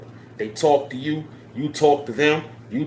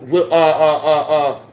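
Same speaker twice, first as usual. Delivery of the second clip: laughing; 2 semitones higher, 5 dB louder, slower than usual. Real, not acted. Laughs mid sentence.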